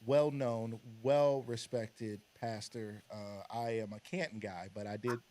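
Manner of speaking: solemn pulpit delivery; church voice. Acted. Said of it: "This voice that you're using is crazy".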